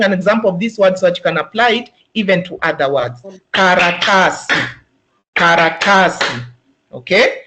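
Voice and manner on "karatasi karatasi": Karatasi with a long ta and quick ends; correct pronunciation. Shown as a demonstration. Teacher repeats the word for trainees to copy. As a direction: model Karatasi twice, holding ta. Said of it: "ta is a long sound".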